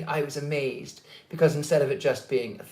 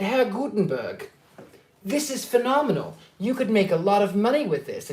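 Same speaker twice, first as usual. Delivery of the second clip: lightly acted awe, pitched up; amazed enthusiasm; 5 semitones higher than usual. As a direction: gush mildly, as if dazzled by a discovery. Enthusing to Gutenberg in dream.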